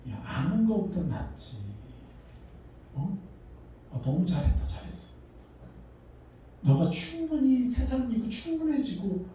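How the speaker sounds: a doting father, lifting high to reassure; God's encouraging voice. Retold or imitated. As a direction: play God praising a child who gave a little. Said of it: "하나님은 뭐라는지 아세요?".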